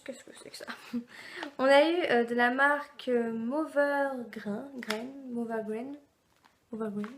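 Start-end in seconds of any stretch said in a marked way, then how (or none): 0.0-0.7 a private puzzled aside, barely voiced; whispered thought. Vlogger whispering her first reaction to the box. Inner thought on seeing the product. 3.3-7.1 "Mover Grain" sounded out slowly, with a self-mocking French accent; stumbling English name. Shown as a demonstration. Vlogger trying to read a foreign brand name, stumbling over it. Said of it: "avec mon bel accent".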